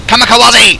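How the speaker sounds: high kamikaze call; battle cry. Pretend. Gamer diving at enemies in trouble, playful battle cry. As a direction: sing out a playful charge. Charging in during game.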